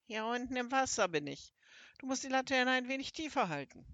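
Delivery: high-pitched toad instructing from below; croaking toad creature. Acted. Toad speaks from the water.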